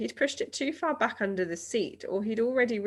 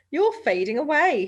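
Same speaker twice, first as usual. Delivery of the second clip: mock worried father; 8 semitones higher, 8 dB louder than usual. A narrator's reading. Father voiced in read story.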